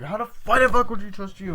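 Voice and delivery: loud, high-pitched mock indignation; indignant outburst. Friends quarrelling over trust, indignant high outburst. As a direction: demand it in acted outrage.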